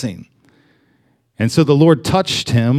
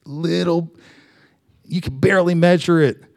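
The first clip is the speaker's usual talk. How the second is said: small still voice. Retold or imitated. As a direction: let the words fall to a tender near-hush. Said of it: "little, little small voice".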